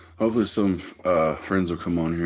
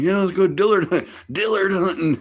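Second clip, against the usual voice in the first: high, louder put-on friend voice; pitched-up buddy, all in; high eager buddy; 12 semitones higher, 5 dB louder than usual. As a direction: sell the hunt like the goofy friend.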